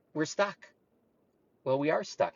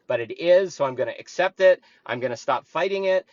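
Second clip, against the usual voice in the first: calm acceptance; 4 semitones lower than usual. Shown as a demonstration. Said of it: "Take a moment and say".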